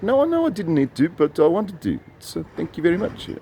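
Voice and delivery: lightly put-on high voice; high voice, gradually easing down; retold polite exchange. Retold exchange over the gift.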